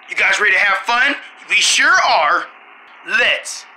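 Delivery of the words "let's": excited cheer. Acted. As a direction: cheer like a thrilled kid. Kids' ad, cheering.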